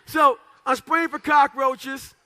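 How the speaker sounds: the speaker restarts the story beat for the crowd, loud and slow; slow emphatic restart. Real, not acted. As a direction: lean into each word slowly. Restarting the climax.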